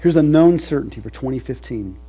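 full-force preaching. Acted. Preacher to his covenant people, full-force preaching. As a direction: lift it up and thunder it.

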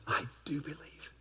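breathy whispered confession of faith; whispered plea. Acted. Desperate father whispering to Jesus, whispered plea. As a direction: hush it like a secret prayer. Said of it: "cries out".

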